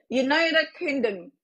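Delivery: United Kingdom drawn out slowly, syllable by syllable; slow, deliberate. Shown as a demonstration. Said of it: "What country?".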